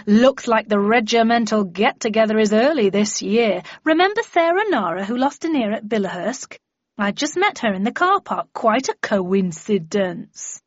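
put-on chatty old regimental pal, emphatic opening; lightly voiced hearty army friend. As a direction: greet old comrades with lively, swooping pitch.

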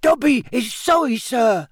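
anxious squeaky elf, very high; Dobby. A narrator's reading. House-elf apologises to Harry, anxious squeak. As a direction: squeak it out like a worried little servant. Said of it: "squeaked Dobby anxiously".

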